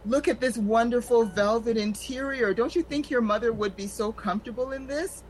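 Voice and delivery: mock condescending salesperson; condescending salesman. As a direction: talk down like a syrupy funeral salesman. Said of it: "the people talk to you like you're an idiot".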